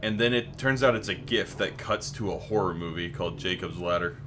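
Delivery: breaking up over voice chat; choppy cut off endings. Real, not acted. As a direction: voice cutting out on the mic. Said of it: "You keep cutting out".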